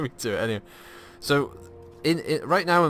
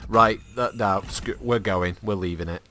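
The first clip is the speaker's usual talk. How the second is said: annoyed mum; 2 semitones lower than usual. Retold or imitated. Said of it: "she gets so annoyed".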